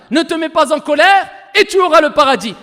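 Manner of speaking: ringing, insistent preacher's declaration; emphatic proclamation. Retold or imitated. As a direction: drive the promise home loudly. Repeats the translation as a proclamation.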